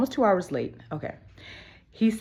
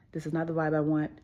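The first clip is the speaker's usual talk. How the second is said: gentle, understated retold rejection; kindly; 4 dB quieter than usual. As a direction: turn him down kindly, without pushing. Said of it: "I told him kindly".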